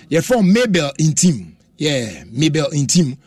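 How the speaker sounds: slow, drawn-out calling of the name; slow announcement. Real, not acted. Radio host giving a birthday shout-out, slowly calling out the name.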